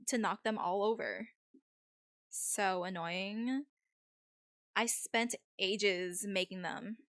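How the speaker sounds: lightly voiced Valley girl; a hint of Valley-girl accent. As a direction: play it as a mild Valley girl. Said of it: "If you guys hate the Valley accent".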